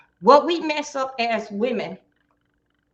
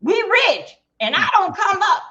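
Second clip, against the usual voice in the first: mock woman gushing; 8 semitones higher, 5 dB louder than usual. Mocking a jumping-ahead woman.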